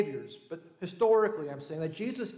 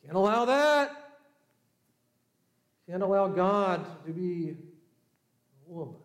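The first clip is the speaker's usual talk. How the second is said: firm refusal. Acted. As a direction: put your foot down. Leaders rejecting the idea.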